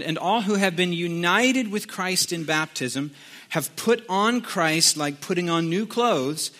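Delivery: deliberate reading with weighty pauses; measured, spaced-out Bible reading; scripture reading. Acted. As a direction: read it out to the congregation phrase by phrase. Reads scripture aloud.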